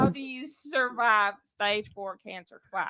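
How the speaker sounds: put-on country accent question; lightly drawled country accent. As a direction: ask it with a country twang. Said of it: "let's hear you doing your country accent".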